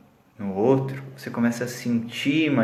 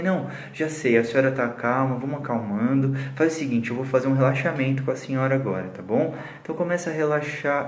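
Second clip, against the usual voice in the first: calming down. Retold or imitated. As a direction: ease her gently into calm. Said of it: "aí eu comecei a reduzir".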